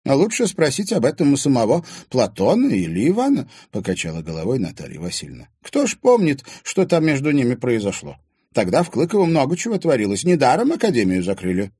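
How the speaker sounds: put-on high, loud old woman's voice; old woman telling the past; reminiscing old woman. A narrator's reading. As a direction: recall old times.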